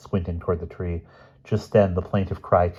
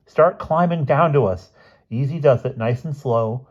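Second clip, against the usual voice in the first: calling out; 7 semitones higher, 5 dB louder than usual. A narrator's reading. Calling up instructions.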